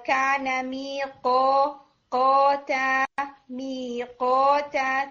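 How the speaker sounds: میقاتا with a heavy, struck qaf, slow; teacher modelling qaf; strong qaf demo. Shown as a demonstration. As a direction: hit the qaf in میقاتا hard. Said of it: "قوف کے مخرج کو بھی".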